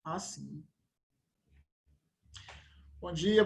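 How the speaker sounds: ordinary delivery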